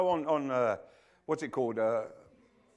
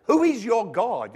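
higher, fast, bemused; mock puzzled; 8 semitones higher, 4 dB louder than usual. Preacher asks the TV crowd, mock puzzled. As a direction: quiz them with mock disbelief. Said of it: "And I think".

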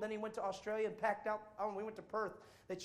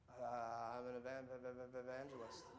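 nervous stammer; 11 semitones lower, 12 dB quieter than usual. Retold or imitated. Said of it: "And I'm like this".

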